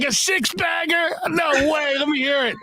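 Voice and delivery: high-pitched, delighted disbelief; acted astonishment. Colleague demanding to hear the messages, high astonished impression. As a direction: play him amazed and eager to listen. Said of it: "He's like".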